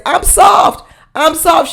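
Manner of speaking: sweet little voice. Retold or imitated. Retelling what the poor girl says, in a sweet high voice. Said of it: "sizza got the sweetest little voice".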